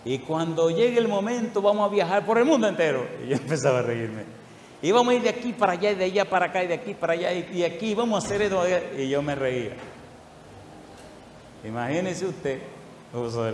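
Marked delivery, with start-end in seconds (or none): 0.1-8.6 excited. Retold or imitated. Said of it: "él me decía muy emocionado".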